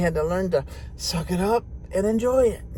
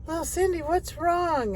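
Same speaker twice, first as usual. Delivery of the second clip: Mama Brady; 11 semitones higher, 3 dB quieter than usual. Retold or imitated. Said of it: "Mama Brady had to go up and say".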